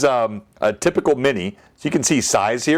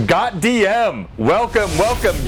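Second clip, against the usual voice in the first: excited; 10 semitones higher than usual. Real, not acted. Thanking a sub gifter on stream.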